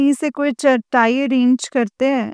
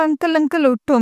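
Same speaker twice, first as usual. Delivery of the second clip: excited calling; 5 semitones higher than usual. Retold or imitated. Excitedly waking her husband.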